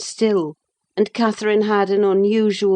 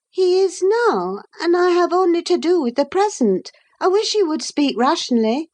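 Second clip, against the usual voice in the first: put-on lightly raised young woman's voice; young Catherine; 11 semitones higher than usual. A narrator's reading. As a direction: speak up as the restless young lady.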